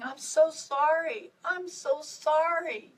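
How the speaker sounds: a sister crying with guilt; tearful apology. A narrator's reading. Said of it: "Nancy cried and cried".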